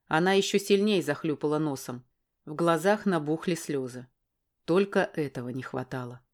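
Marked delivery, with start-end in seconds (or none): none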